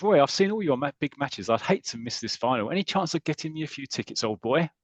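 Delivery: a hint of a charming toff angling for tickets; Terry Thomas type cad. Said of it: "kind of Terry Thomas, Terry Thomas type character".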